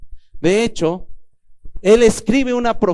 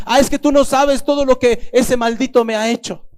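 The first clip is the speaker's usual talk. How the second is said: bitter complaint; 5 semitones higher than usual. Retold or imitated. Wife refusing God's call to forgive her husband, bitter. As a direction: spit it out like a wounded wife.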